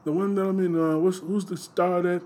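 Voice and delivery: a hint of an old Jewish grumbler; old Jewish man voice. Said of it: "in the Jewish voice".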